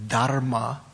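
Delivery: "dharma" with the R sounded, DHAR-ma; Sanskrit dharma. Shown as a demonstration. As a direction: give "dharma" its full R. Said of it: "the R to a M".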